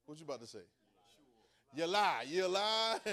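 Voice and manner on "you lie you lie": loud mock accusation, you lie; accusing shout. Preacher voicing the crowd accusing the mother, loud angry shout.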